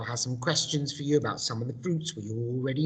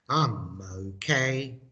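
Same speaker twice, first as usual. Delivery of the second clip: slow so-so answer; much slower than usual. Shown as a demonstration. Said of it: "I do the English".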